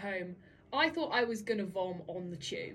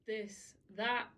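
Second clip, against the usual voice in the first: mock sad; 5 semitones lower, 4 dB quieter than usual. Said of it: "I was like".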